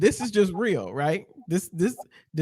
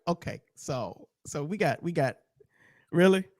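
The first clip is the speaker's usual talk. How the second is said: mock a sinking look at an empty bucket; deflated disbelief; 4 semitones lower, 4 dB quieter than usual. Host looking at two dollars in the bucket, low, soft and deflated. Host counting a tiny collection.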